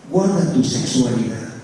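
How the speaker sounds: low, solemn divine command; voice of God. Acted. Pastor voicing God's warning to youth, deep and solemn. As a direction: speak as the Lord, grave and low. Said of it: "el Señor te va a decir".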